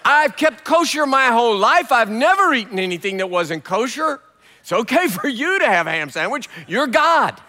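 pleading Peter. Retold or imitated. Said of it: "Peter says".

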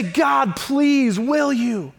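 earnest begging prayer; pleading. Acted. Believer praying to God with a tiny bit of faith, pleading. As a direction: plead with God, punching the please. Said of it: "keep pleading and keep begging".

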